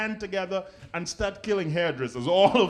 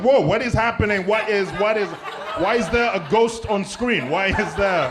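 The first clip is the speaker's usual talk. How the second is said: mock shock; 5 dB louder than usual. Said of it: "I was like".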